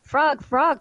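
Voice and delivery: lightly acted excited shout; excited crying out. A narrator's reading. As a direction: call out to your friend in excitement. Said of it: "cried Toad".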